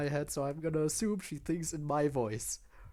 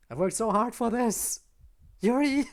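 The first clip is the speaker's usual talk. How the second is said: high, loud protest; raised, pleading yell; exasperated shout; 7 semitones higher, 7 dB louder than usual. Real, not acted. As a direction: cry out in dismay at the game. Player protests, calls out to character.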